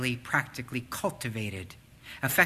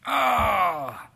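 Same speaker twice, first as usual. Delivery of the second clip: high, fast, fretful self-reproach; guilty inner voice; 10 semitones higher, 5 dB louder than usual. Retold or imitated. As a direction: rattle off a guilty to-do list. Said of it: "that's making you feel guilty".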